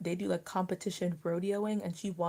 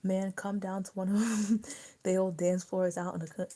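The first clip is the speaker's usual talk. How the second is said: put-on louder, laughing Southern country accent; 5 dB louder than usual. Friend reading a line in a hammed-up country accent. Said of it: "a good, good country accent".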